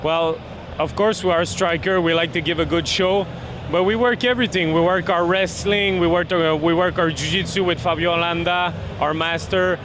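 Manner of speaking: English with a Québécois accent; French Canadian speaking English; Quebec French accent. Real, not acted. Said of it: "my, uh, Québécois accent".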